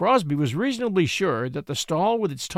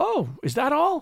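very high, drawn-out, greatly relieved; 9 semitones higher than usual. A woman on a ladder answers the groaning man, in great relief. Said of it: "in great relief".

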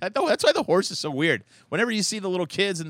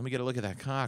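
whispered, lower and quieter; 5 semitones lower, 9 dB quieter than usual. Retelling what a woman in a photo whispers to a horse: imitating a whisper. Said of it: "she's whispering to the horse".

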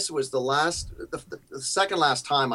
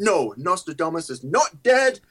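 put-on British accent, pitched a bit higher; 5 semitones higher, 4 dB louder than usual. Retelling how the metal god answered your question that you still regret, in the singer's British accent. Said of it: "in his British accent".

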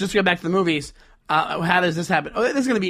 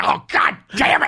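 put-on grumbling voice, higher; 9 semitones higher, 4 dB louder than usual. Repeating the other speaker's impression: grumbling Nick Nolte voice. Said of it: "You're like".

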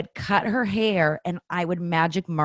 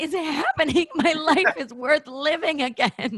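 mock very high, tearful, hysterical sobbing wail; 11 semitones higher than usual. Retelling answering the speaker's husband on the bubble's opening day: imitating hysterical crying. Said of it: "where I was hysterically crying".

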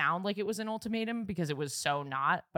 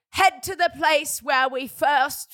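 put-on very loud, terrible British reality-TV accent; 8 semitones higher, 10 dB louder than usual. Retelling a scavenger hunt she made, reading a clue in a bad Love Island accent. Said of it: "This is a terrible Love Island".

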